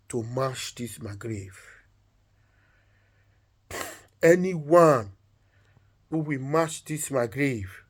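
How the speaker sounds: slow, measured last request; solemn decree. Acted. Wife gives her last command to the king, solemn and slow. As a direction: pronounce it slowly, with long pauses.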